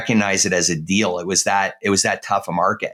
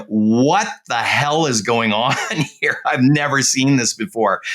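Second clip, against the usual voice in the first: drawn-out, amazed disbelief. Retold or imitated. Newcomer looking around a lavish condo launch, amazed. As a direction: stretch it out in retold astonishment.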